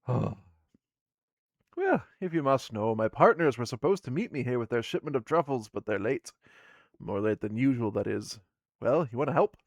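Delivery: she's annoyed her partners are late; grumpy dwarf woman. Acted.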